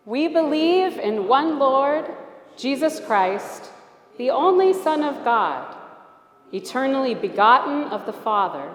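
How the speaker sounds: slow creed recital with rising and falling inflection; inflected recital. Shown as a demonstration. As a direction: let the voice rise and fall, slow and full. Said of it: "play with a little bit of inflection".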